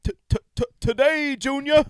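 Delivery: mock stutter. Mocking a stutter.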